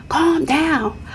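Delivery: soft whispered mock soothing; whispered calm down. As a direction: hush her like a smooth-talking man. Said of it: "to get you to calm down".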